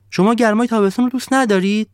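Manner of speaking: high, loud disbelieving question; incredulous sun. Acted. The sun asking the villagers if they see it, high and loud. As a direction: ask as if they must be blind.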